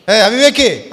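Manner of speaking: rebuke. Retold or imitated. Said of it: "అన్నాడు".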